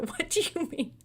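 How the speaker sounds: high, loud laughing exasperation; exasperated outburst. Real, not acted. Ranting to listeners about useless officials, loud and exasperated. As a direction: laugh in disbelief while ranting. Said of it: "That made me so angry".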